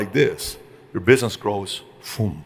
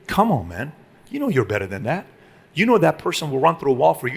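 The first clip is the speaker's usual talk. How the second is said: quiet private scolding; 3 dB quieter than usual. Retold or imitated. Boss quietly correcting an employee, hushed and firm. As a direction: pull him aside and correct him softly.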